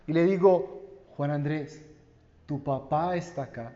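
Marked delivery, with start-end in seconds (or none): 1.2-3.7 hushed and tender, softer, to a newborn on the chest; soft soothing father. Retold or imitated. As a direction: soothe the baby gently. (padre susurrando con ternura a su bebé)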